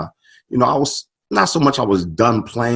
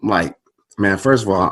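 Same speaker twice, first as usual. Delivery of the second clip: usual speaking voice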